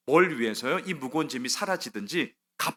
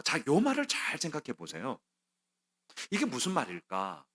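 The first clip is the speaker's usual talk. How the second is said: ordinary talk, nothing marked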